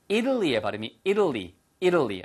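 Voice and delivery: careful teacher's model of "Italy"; pronunciation of Italy. Shown as a demonstration. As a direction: say "Italy" as "IDdly", first syllable stressed. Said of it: "발음 하나 주의라고".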